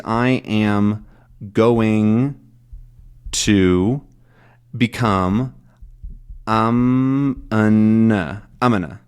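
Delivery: "I am going to" slowly word by word, then reduced to "Amana"; progressive sound reduction. Shown as a demonstration. Teacher questioning how the phrase shrinks, slowly reduced to Amana. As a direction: separate slow words collapsing into a quick "Amana". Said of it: "why does the, the phrase".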